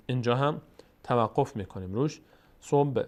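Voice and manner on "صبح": صبح with the b released in a small bounce; qalqala on صبح. Shown as a demonstration. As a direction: echo the b in صبح briefly. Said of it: "به میلرزه در مخرجش".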